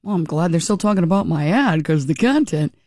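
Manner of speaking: a lightly voiced, bland politician mimic; mock him, deadpan and unbothered; understated imitation of a clueless politician; mocking McKee again. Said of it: "you wouldn't get riled up".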